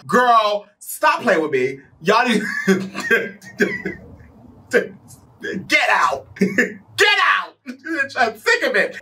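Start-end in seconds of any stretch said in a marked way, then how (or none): 2.0-9.0 words broken up by high laughter; laughing hard. Real, not acted. Reacting to the absurd voodoo story, laughing helplessly. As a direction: crack up between the words.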